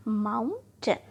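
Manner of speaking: माउं in माउंटेन drawn out, टेन unstressed; stress on first syllable. Shown as a demonstration. Teacher repeating for learners, माउंटेन with stress on its first syllable. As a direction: lean on the माउं of माउंटेन, keep टेन light. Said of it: "माउंट जब बोलते हैं तो हम ट्रस्ट".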